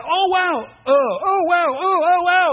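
high, loud, gasping awe; breathless mock amazement; amazed wow. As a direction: marvel at the hidden pattern. Amazed at rug's underside.

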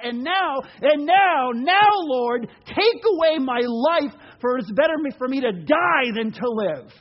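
mock despairing plea. Jonah begging God to take his life, loudly pleading. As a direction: beg dramatically to be taken, hammed up.

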